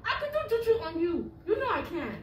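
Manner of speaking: real angry threat in African accent. Real, not acted. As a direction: threaten him with an African lilt. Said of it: "The African come out when she get mad".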